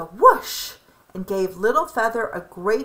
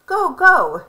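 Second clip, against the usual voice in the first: mild chuckle; 9 semitones higher, 8 dB louder than usual. A narrator's reading. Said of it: "Duck chuckled".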